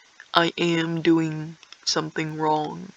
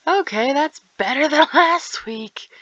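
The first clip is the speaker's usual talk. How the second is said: whisper; 6 semitones higher, 5 dB louder than usual. Acted. Laughing whisper joke to self.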